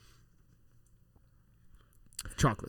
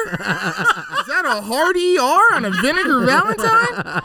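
mocking tease; 9 semitones higher, 6 dB louder than usual. Mocking friend's accented word.

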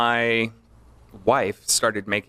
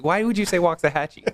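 incredulous; 8 semitones higher than usual. Real, not acted. Incredulous at town choice.

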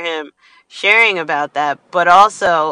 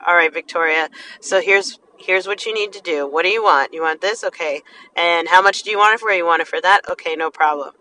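gentle guide; 2 semitones lower, 4 dB quieter, faster than usual. Retold or imitated. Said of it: "the most loving, kind, gentle".

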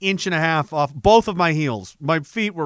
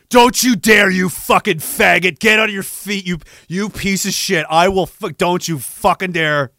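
mock drill-sergeant scream; 3 dB louder than usual. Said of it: "screaming at me to get up".

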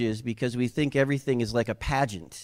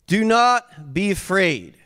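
raised, slow, emphatic command; angel's proclamation; 5 semitones higher, 4 dB louder than usual. Acted. Preacher voicing the angel to frightened Mary, high and emphatic. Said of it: "he says something that angels say a lot".

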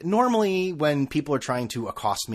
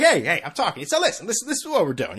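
imitating Donald Trump; 6 semitones higher than usual. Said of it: "that is brutal to listen to".

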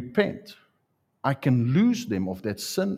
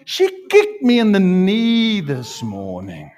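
high, loud, drawn-out tattling; hammed-up wail of grievance, slowly stretched; mock aggrieved complaint; 6 semitones higher, 6 dB louder, slower than usual. Preacher pretends to tell friends on the woman, mock aggrieved.

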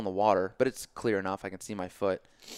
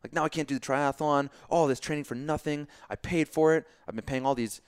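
a touch of griping, higher and louder; mock angry rant; 5 semitones higher, 4 dB louder than usual. Injured athlete showing the reaction he avoided, mock frustration. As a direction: imitate a self-pitying complaint. Acts out reaction he didn't have.

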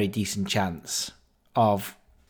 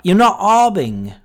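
much higher and much louder, hitting not; shouted accusation; 8 semitones higher, 9 dB louder than usual. Retold or imitated. Manager shouts over the betting shop at him, loud accusation. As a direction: yell it over the whole shop. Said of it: "he just shouts over the shop".

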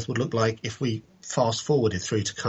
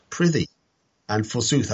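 hammy mock-archaic stage voice; fantasy character voice. Shown as a demonstration. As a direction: ham up an old-fashioned knightly speech. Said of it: "I'm now speaking like a character from a fantasy novel".

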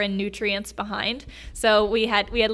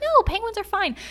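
defensive protest; 12 semitones higher than usual. Retold or imitated. Retold protest to shipmates.

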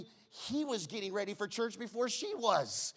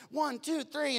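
counting aloud; 8 semitones higher, slower than usual. Retold or imitated. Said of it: "And I said".

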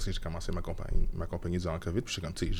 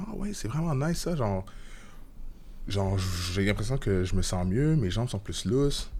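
excited; 2 semitones higher than usual. Retold or imitated. Friends praising the massage gun.

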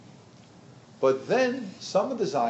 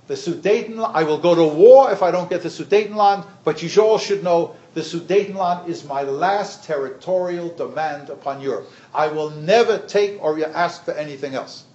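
emphatic, louder dictator's demand, mildly acted; lightly voiced Hitler; 3 semitones higher, 6 dB louder than usual. Lecturer quoting Hitler's promise on the Sudetenland, mildly declaimed. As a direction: press the ultimatum home, loud then easing off. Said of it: "Hitler had said".

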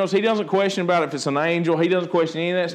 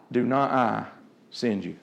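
much softer, low and reverent; hushed and solemn; 10 semitones lower, 6 dB quieter than usual. Acted. Preacher quoting God's promise to Gideon: hushed reverence. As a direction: drop it to a reverent near-hush.

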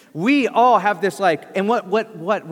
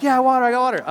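loud and pitched up, proud of it; 6 semitones higher, 5 dB louder, faster than usual. Retold or imitated. Speaker boasting to his friend about the bottles, proud and loud. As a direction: show off the water, beaming. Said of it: "And I'm like".

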